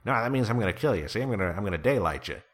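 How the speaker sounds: lightly voiced old-movie gangster; a hint of forties mobster patter; James Cagney. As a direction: rattle off a mock gangster threat. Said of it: "when everybody thinks of gangsters".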